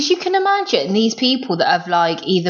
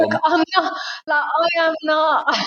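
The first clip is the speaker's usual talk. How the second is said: mock defiant refusal; 7 semitones higher than usual. Hotel guest refusing to come downstairs, mock defiant. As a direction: dig in with hammed-up indignation.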